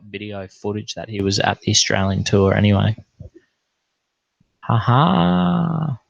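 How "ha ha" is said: laugh. Real, not acted. Laughing after the Kalen story.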